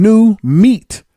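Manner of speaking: high, loud leering jab; sneering crowd. Retold or imitated. Crowd sizing up the newcomer, high and loud. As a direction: hiss it like predators. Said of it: "they going".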